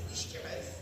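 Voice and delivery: soft, whispery Scottish "Wish your mouth"; Scottish pronunciation. Shown as a demonstration. Host teaching guests how to shut someone up, hushed Scottish "Wish your mouth". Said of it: "I'm gonna teach you guys something".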